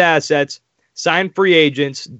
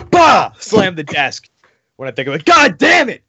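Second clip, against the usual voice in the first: angry outburst; 4 semitones higher, 4 dB louder than usual. Retold or imitated. Acting out slamming the desk.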